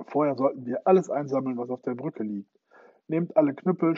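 rally the troops at full voice; shouting orders. Acted. John commands his comrades in battle, loud orders. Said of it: "Er rief seinen Kameraden Befehle zu".

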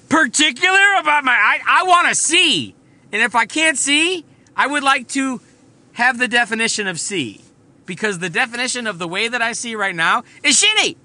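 high, loud, slowed indignant protest that eases toward the end; patient arguing with her surgeon, high and indignant; exasperated rant. Retold or imitated. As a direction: spell it out to him like he's an idiot. Retelling her argument with surgeon.

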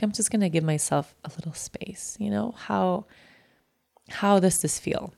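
whispering softly to herself after bad news; quiet to herself. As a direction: whisper gently to yourself. Alone on the floor after the call.

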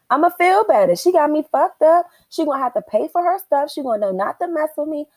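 mock hyped inner voice; worked-up. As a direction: pump yourself up with revenge. Inner voice listing pros.

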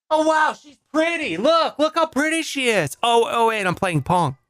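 high-pitched, hammed-up delight; put-on wowed reaction; mock excitement. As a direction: gush high, imitating an awed app user. Acted excited dating app user.

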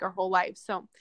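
between sips of water; while sipping a drink. Real, not acted. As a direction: talk around a drink of water. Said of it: "sorry, I'm drinking some water".

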